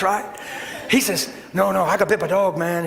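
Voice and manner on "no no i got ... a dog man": quick, urgent Southern imitation; fast-talking Southern impression. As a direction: rattle it off like a worried Southern man. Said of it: "He's talking fast and he's".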